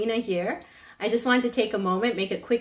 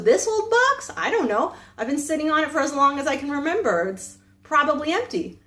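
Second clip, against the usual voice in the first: shrugging beggar; 5 semitones higher than usual. Retold or imitated. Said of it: "And the beggar goes".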